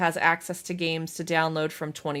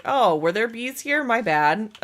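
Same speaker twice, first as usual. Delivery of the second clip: drawn-out, louder feigned surprise; mock innocence; 4 semitones higher, 5 dB louder, slower than usual. Streamer pretending not to notice the bees, mock innocence. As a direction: play innocent after the damage, hammed up. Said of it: "and be like".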